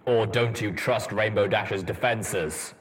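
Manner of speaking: a dry dig at him; pointed jab. Acted. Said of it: "adding the jab".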